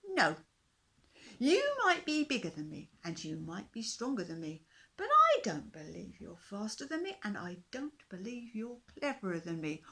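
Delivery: a tiny king daring to disagree; defiant fish king. A narrator's reading. Fish king challenges the dinosaur, bold and high.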